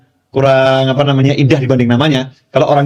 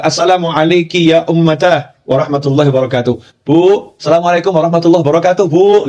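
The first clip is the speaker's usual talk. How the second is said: calling out to mother; 3 semitones higher than usual. Retold or imitated. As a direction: imitate a son calling in to his mother. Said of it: "panggil ibunya".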